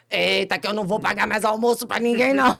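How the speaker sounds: mock scolding friend. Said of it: "o Galinha já fala".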